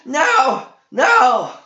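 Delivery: high, loud squealing no. A narrator's reading. Creeple on his knees squeals over his lost sphere, high and loud. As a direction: squeal it in helpless despair. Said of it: "shaking, squealing".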